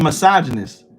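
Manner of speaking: "misogynist" said as muh-SAH-juh-nist; their pronunciation. Shown as a demonstration. Showing how people say it to him, "misogynist" as muh-SAH-juh-nist. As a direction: say "misogynist" with a loose "muh" opening, stress on SAH. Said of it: "they literally say it how I'm saying it".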